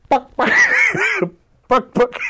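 high, loud clucking between laughs; laughing chicken imitation; chicken clucks. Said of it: "And he's".

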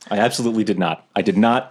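understated, level denial; calm indoor voice. Acted. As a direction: deny it calmly, without raising your voice. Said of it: "in a calm voice".

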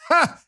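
a sharp, high laugh of triumph; triumphant laugh. Real, not acted. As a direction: bark one mocking laugh. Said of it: "triumphant laugh".

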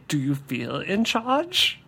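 lightly voiced villain, slow and drawn out; slow line with a rising questioning end; Bane. Showing a co-host the movie line, lightly imitated menace. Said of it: "another Baneism".

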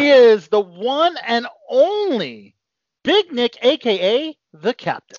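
hype announcer intro. Acted. Hyped host introducing birthday guest.

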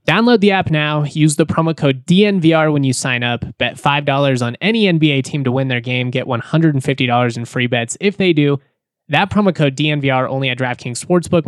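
upbeat sponsor read. Acted. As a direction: sell it like a radio spot. Host reads sponsor ad.

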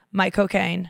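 lightly imitated British Michael Caine accent. Shown as a demonstration. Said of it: "Michael Caine in his accent".

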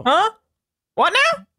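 put-on high, creaky old man asking. Shown as a demonstration. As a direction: play a confused old man. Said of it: "But in, like, an old man voice".

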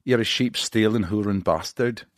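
lightly put-on Scottish insult; amateur Scottish or Irish accent; mock Scottish or Irish. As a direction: try a rough Celtic accent. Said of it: "saying Irish or Scottish".

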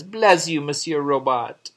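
high, breathy French lady voice; snooty poodle voice. Retold or imitated. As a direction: coo it like a French flirt. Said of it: "little French poodle says".

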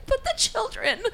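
mock whine. Mocking pleading bystanders.

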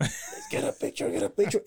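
high, squeaky acted-out excitement; eager fan. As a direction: act out scrambling for a photo. Acts out eager fan grabbing phone.

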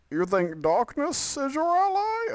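high, slow, strained movie-villain voice; menacing villain line, badly overdone; Bane impression. Podcast host doing a Bane bit for listeners, hammed-up villain voice. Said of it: "Here's my Bane impression".

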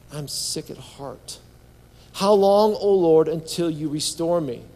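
measured, with weight on key words; pleading scripture reading. Acted. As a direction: read it as an earnest plea to God. Reads psalm aloud as plea.

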